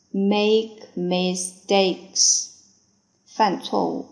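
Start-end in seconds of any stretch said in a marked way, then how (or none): 0.1-2.5 slow repeat. Shown as a demonstration.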